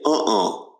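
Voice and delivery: "Uh-uh" as two weak uh vowels meaning no; no-sound uh-uh. Shown as a demonstration. Teacher showing students the schwa, grunted no. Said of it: "or the word no, where you say".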